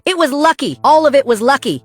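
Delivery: high, loud indignant scream; screaming protest. A narrator's reading. Beaten bully still screaming from the floor, screaming protest. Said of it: "Evan is still screaming".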